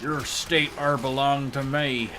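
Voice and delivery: put-on slow, half-landed Southern accent; failed Southern accent attempt. Claiming a state, slow failed Southern accent. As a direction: try a Texan accent and miss. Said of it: "That's not the accent".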